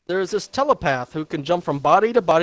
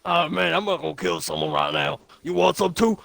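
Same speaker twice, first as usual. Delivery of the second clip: a hint of a put-on tough guy; casual threat in a lightly altered voice; lightly voiced Punisher. Friend retelling the movie as the Punisher offhand. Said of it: "why does he sound like that".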